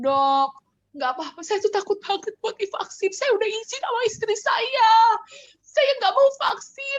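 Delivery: very high, sobbing, tearful crying voice. Retelling how a frightened patient begged the doctor, imitating crying. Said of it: "nangis gini kayak".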